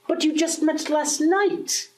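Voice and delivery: a priest who can't believe his ears; shocked disbelief. Acted. Friar doubting the young lover, stunned and slow.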